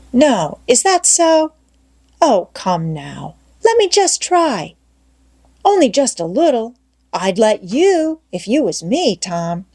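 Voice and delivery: a lightly voiced boy begging; Ben, pleading. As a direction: wheedle for a turn. Ben begs to try.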